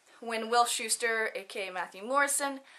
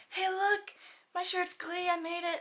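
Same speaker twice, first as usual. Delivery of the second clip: eager show-off; 7 semitones higher, 4 dB quieter than usual. Retold or imitated. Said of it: "I was like".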